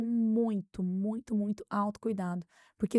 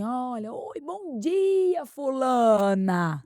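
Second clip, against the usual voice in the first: much higher, very slow, sweet "bom dia"; polite greeting demo; 5 semitones higher, 7 dB louder, much slower than usual. Shown as a demonstration. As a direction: show him how to greet kindly. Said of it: "vai falar assim".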